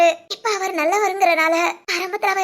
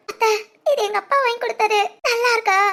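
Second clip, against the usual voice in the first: tearful; 4 semitones higher than usual. Acted. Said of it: "இன்னும் அழுதுட்டு தான் இருக்கியா?".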